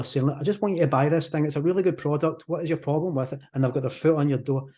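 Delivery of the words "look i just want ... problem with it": quick, lightly acted hard sell; mildly pushy doorstep pitch, hurried along; pushy salesperson. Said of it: "they were really pushy".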